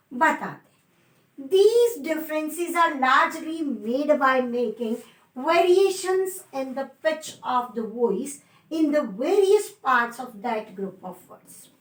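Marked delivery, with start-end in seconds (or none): 1.5-11.7 very slow, word by word dictation. Shown as a demonstration. Teacher dictating a definition to students, very slow. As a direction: spell out the definition slowly so students can write.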